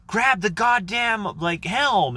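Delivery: very high, loud, slow bark of a command; hammed-up shouted command, high; mock order. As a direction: yell it like a rowdy shipmate. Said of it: "if they're like".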